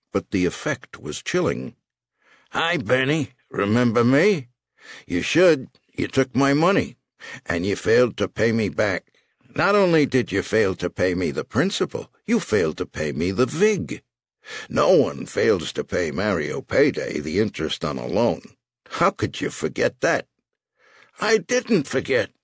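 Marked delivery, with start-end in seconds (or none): 2.5-20.3 a hint of menacing loan shark; smooth threat to a dangling debtor; lightly voiced mob boss. 21.2-22.3 put-on high, pleading old man; desperate cry. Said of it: "Benny cried desperately".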